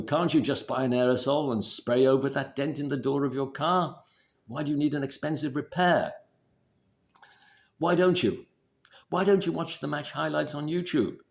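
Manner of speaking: high, loud hectoring nag; nagging critical parent. Retold or imitated. Wife scolding her partner about the car dent, high and loud. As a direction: scold him like a disapproving mother. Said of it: "your critical parent".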